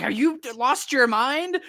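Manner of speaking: high, drawn-out disbelief; mock outrage. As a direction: retell it as an incredulous, high-pitched demand. Sally's shocked retort in retelling.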